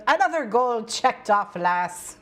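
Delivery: put-on Scottish attempt; mock Scottish accent. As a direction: try out a hammy Scottish accent. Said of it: "I need to do that accent".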